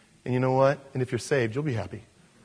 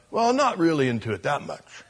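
sheepish backpedaling; 4 semitones higher than usual. Acted. Convert backpedals before old friends.

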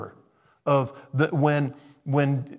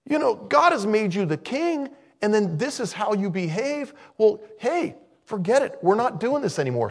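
high, louder exasperated refusal; Samuel refusing; 11 semitones higher, 6 dB louder than usual. Retold or imitated. Preacher voicing Samuel refusing Saul, high and loud. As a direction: brush him off hard. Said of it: "And Samuel says".

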